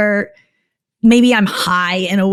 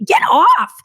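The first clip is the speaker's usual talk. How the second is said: retold yell; 11 semitones higher than usual. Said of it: "pushed him off and was like".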